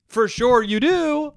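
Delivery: hammed-up outburst at a creep; mock scream. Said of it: "wanted to scream out loud".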